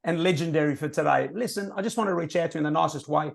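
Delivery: bright, friendly phone voice; friendly inflection. Shown as a demonstration. Caller charming the prospect with a friendly message. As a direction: make them hear the friendliness. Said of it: "the inflection changes everything".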